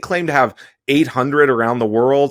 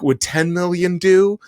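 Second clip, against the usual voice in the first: flustered panic; 4 semitones higher than usual. Retold or imitated. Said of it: "they're freaking out".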